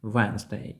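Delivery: "Wednesday" as WENZ-day; repeat-after-me model. Shown as a demonstration. Teacher asks learners to repeat the word, silent D. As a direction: say "Wednesday" in two syllables, no first D. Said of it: "Повторіть, будь ласка".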